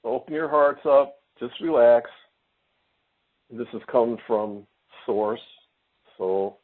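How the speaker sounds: calm, slow guiding voice; healing guidance. Real, not acted. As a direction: ease them into relaxing. Leads a healing session.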